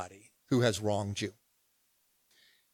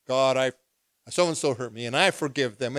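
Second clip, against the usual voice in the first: fake spiritual prayer. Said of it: "Don't try to come to God all spiritual".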